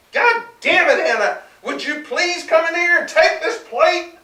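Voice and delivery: loud, high furious shout; angry yell. A narrator's reading. Husband yelling at his wife for the plate, loud and high. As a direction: bellow it with fury. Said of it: "He yelled".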